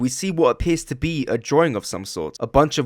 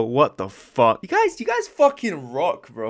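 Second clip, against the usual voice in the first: excited; slower than usual. Real, not acted. Thanking for a thousand subscribers.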